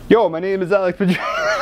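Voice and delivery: put-on a playful stab at Alex Madrea's accent; hammed-up imitation of Alex Madrea's accent. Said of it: "How do you do an Alex Madrea accent?".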